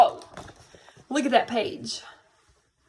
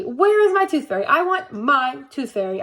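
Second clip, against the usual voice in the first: whiny tantrum; 4 dB louder than usual. Acted. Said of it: "I said, stomping my foot".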